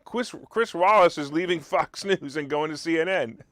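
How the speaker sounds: repeated with a laugh breaking through. Shown as a demonstration. Radio host repeats the news, laughing at it. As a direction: chuckle through the punchline. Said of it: "so I'll repeat it".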